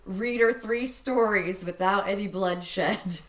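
slow, stiff spoken word reading; robotic poem. Shown as a demonstration. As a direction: read it like a deadpan robot poet. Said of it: "I read that like a, a robotic poem".

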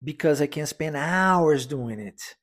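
hours lifted and stretched, slow and clear; stress on hours. Shown as a demonstration. Teacher modelling the sentence, stress on hours. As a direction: lean on hours, the rest lighter. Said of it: "a ênfase na palavra hours".

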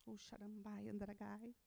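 very soft, low tongues; whispered tongues; murmured tongues. Real, not acted. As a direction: pray in tongues under the breath. Speaking in tongues.

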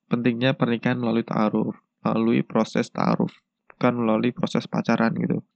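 blocked nose from a cold; stuffy nose. Real, not acted. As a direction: speak through a stuffy nose. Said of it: "maafin kalau suara aku bindeng karena ini juga lagi pilek".

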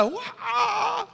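cheer. Retold or imitated. Fan jumps up cheering a run.

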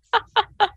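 very high, short falsetto laugh; high squeaky laugh. Acted. Voiced text reaction laugh.

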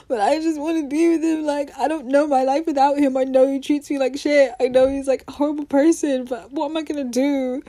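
lightly acted lovesick girl; imitating a tearful plea; pleading daughter. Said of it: "you're saying to your mom".

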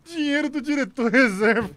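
laughing through the words, slowly. Real, not acted. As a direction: giggle the line out. Laughing at a joke donation.

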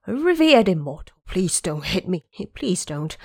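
frightened pleading, lightly voiced; pleading in fear. Dragon King begs Wukong not to strike him, afraid. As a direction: beg not to be hit. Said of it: "begged in fear".

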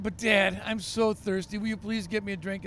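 put-on a child whining to his dad for water; whiny little boy. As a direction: beg like a thirsty little boy. Boy pleading for water at bedtime.

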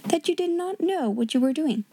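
put-on high, lofty girl's voice; politely superior, pitched high; grand and polite. A narrator's reading. Pupil telling off the headmistress, grandly polite. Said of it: "she answered grandly and politely".

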